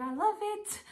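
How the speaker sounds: a high, delighted squeal of a quote; mock the doctor having a blast; imitating gleeful doctor. Retelling the doctor's delight to a friend, high excited mimic. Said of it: "she was so happy".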